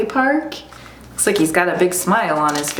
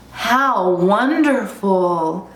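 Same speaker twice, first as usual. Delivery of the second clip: slow, drawn-out wonder; amazed cry; much slower than usual. Acted. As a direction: savour it in mild amazement. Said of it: "cried the animals".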